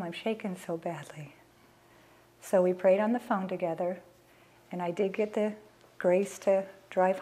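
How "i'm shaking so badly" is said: breathless whisper, barely voiced; shaken whisper. Mother telling her husband she cannot drive, whispered. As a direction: whisper it as if too shaken to speak.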